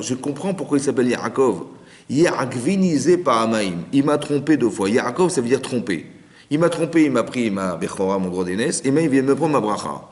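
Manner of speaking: Esav trahi, plus fort, indigné. Retold or imitated. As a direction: crie sa colère de frère trompé. Esav trahi, crie son dépit. (Esav trompé par son frère, indigné et plus fort)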